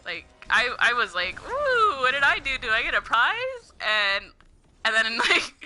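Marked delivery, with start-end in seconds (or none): 1.4-3.7 excited. Retold or imitated. Excited mock quote of self.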